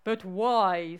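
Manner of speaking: lightly voiced mole, drawn out; a hint of a slow mole. Mole questions the frog's advice, lightly voiced. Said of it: "said the mole".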